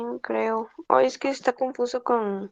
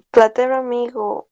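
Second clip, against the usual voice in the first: a touch louder, mildly excited Platero, amigo; entusiasmado; 5 dB louder than usual. Shown as a demonstration. Student reads for the teacher, mildly enthusiastic. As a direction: read "Platero, amigo" with shy, half-hearted enthusiasm. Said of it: "léelo como tal".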